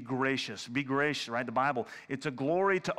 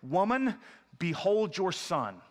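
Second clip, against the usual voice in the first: lightly voiced Jesus; 4 semitones higher, slower than usual. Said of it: "he said to his mother".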